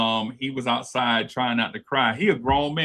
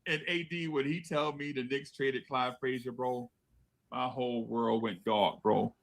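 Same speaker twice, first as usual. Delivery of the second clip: hushed; 10 dB quieter than usual. Real, not acted. Telling his friend his world went dark, hushed. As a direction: let the voice sink with the memory. Sad memory of the trade.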